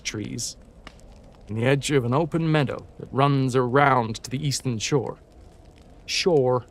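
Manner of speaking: story read in a light American accent. Shown as a demonstration. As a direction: keep the American R's through the story. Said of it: "when it comes to American".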